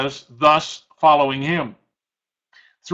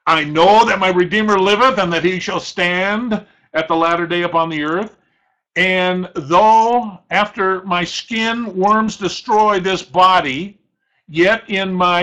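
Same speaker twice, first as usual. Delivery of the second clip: Job with great power; 3 semitones higher, 3 dB louder than usual. Acted. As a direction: declare it like a man sure of his Redeemer under strain. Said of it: "the inflection in his voice, with great power".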